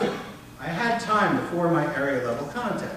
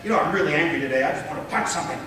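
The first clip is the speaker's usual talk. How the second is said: quick demonstrated anger, held level; restrained mock anger, rattled off; angry, first take; faster than usual. Shown as a demonstration. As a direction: say it angrily but keep the pitch down. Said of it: "my voice is suggesting something else".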